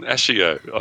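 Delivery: "Ashio" said ASH-ee-oh; wrong emphasis. Retold or imitated. Co-host echoing a mispronunciation often heard, misplaced emphasis. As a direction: lean on the opening "Ash" of "Ashio". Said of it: "I get that a lot".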